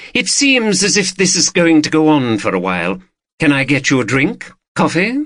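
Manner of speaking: lightly voiced woman dealer, lifted pitch; discreet dealer. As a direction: voice a self-assured dealer, lightly.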